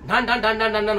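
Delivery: rapid repeated clanging noise; imitated clatter. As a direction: mimic dishes clattering in the kitchen. Imitates plates crashing in kitchen.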